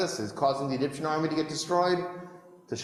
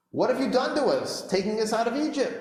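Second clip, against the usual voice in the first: complaining; 8 semitones higher than usual. Acted. Israelites complain to Moses.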